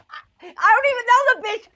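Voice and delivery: loud mock eagerness. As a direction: shout it like you can't wait to go.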